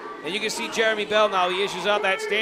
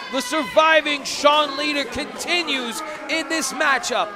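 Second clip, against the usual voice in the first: wrestling commentator; 4 semitones higher than usual. Real, not acted. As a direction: lean into the near miss. Commentator after a near fall.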